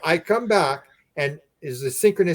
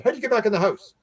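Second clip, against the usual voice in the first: higher, puzzled retold question; surprised question; 8 semitones higher, faster than usual. Owner finding dogs back inside, surprised question. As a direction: imitate a baffled dog owner.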